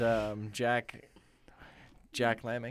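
whispered name; whispering. Real, not acted. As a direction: breathe it out unvoiced.

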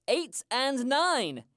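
slow, measured bingo call; bingo caller. Acted. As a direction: call the numbers like bingo night. Bingo calls.

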